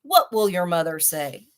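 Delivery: lion scolding himself, very loud; angry roaring. Acted. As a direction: roar it at yourself in a rage. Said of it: "angry animal roaring".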